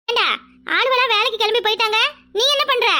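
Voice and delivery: grandmother's sharp telling-off; scolding. Acted. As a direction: scold him for lazing at home.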